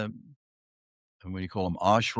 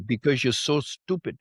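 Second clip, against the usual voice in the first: put-on Indian accent. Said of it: "you're so good at Indian accents".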